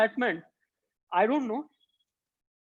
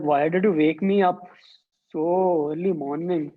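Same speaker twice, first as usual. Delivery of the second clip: sleepy grumble; 4 semitones lower than usual. Acted. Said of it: "he's sleepy".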